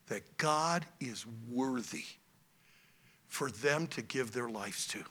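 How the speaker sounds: low, very soft, weighty retelling; hushed solemn charge. Retold or imitated. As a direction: quote a wife's earnest charge, hushed. Wife solemnly charges tired preacher.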